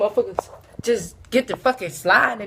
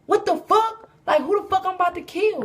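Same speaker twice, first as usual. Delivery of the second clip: much higher, louder, outraged disbelief; mock outrage; 8 semitones higher, 4 dB louder than usual. Comic hearing he must kill his own, outraged disbelief. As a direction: shriek it in stunned disbelief. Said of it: "I'm like".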